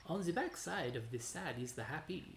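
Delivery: a hint of the mock Italian lover; Italian accent. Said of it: "I don't know what this fucking accent is".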